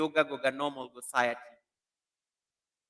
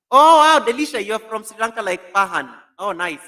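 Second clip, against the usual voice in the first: much higher and louder, thrilled; delighted surprise; 8 semitones higher, 14 dB louder than usual. Real, not acted. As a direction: react as if hearing great news. Learns viewer is from Sri Lanka.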